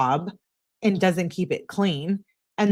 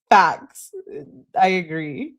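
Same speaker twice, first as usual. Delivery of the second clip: loud agreement; 3 dB louder, slower than usual. Real, not acted. Agreeing with a commenter.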